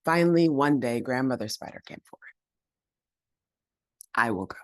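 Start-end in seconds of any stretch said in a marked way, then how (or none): 4.1-4.6 a lightly voiced humble old woman; weak humble. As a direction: say it small and meek. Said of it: "in her weak, humble voice".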